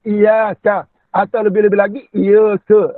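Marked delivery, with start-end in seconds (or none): 0.1-0.8 "iya ka" with single y, open final "ka"; slow "iya ka" without doubling the y; wrong, no sabdu. Shown as a demonstration. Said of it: "Bukan iya ka". 2.1-2.9 "iya ke" with single y and "ke" for "ka"; doubly wrong reading. Shown as a demonstration. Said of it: "itu dua kali salah".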